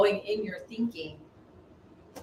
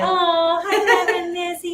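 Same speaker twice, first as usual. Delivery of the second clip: singsong greeting; 10 semitones higher, 7 dB louder than usual. Real, not acted.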